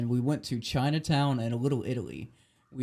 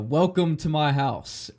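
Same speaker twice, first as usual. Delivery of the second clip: put-on slow old man quote; 3 semitones higher, 4 dB louder, slower than usual. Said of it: "he's like".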